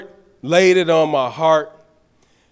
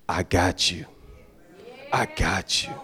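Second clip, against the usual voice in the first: voice of the Lord; 13 semitones lower, 9 dB quieter than usual. Retold or imitated. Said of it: "the Lord is saying".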